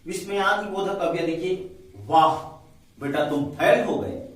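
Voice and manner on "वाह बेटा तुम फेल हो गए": loud mocking वाह, then a slow rising फेल; mock praise for a failure; sarcastic wow. Shown as a demonstration. Teacher demoing a sarcastic exclamation for students. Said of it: "वाह मतलब एक आश्चर्य चकित होता है".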